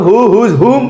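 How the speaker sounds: "হু, হুজ, হুম" each opening on a clear H; H pronunciation. Shown as a demonstration. Teacher contrasting the three exceptions, clear H pronunciation. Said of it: "ওই তিনটা হ, হ হবে".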